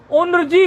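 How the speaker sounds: उन्रजी with n sounded ahead of r; n before r. Shown as a demonstration. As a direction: say n, then r, in उन्रजी. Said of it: "पहले नकार का उच्चारण करो". (उन्रजी में रेफ से पहले नकार)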